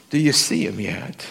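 a hint of a Southern preacher asking; lightly preached call to the congregation. Preacher asks his listeners in a Southern style. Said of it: "I sound like a Southern preacher".

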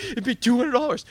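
put-on high, loud, eager kid's answer; bursting with excitement as his little son; excited child. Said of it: "he's all excited going".

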